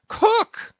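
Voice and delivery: high, loud bark of his name; a mate snapping at his cook; sudden shout. Acted. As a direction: startle him with a slap and a yell. Stubb slaps cook, shouting.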